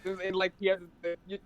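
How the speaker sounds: muffled bad mic; underwater. Real, not acted. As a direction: sounds like under water. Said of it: "you're sounding like you're underwater right now".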